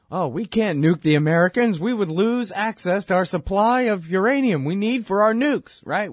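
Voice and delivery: high, loud mock official voice; mocking Russian official.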